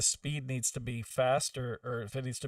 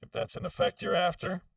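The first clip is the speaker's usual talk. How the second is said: robot voice; 4 semitones higher than usual. Shown as a demonstration. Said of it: "this is the robot voice".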